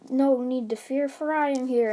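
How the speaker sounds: a hint of a booming hero; heroic entrance. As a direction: announce it like a bold hero, lightly. All Might's heroic entrance.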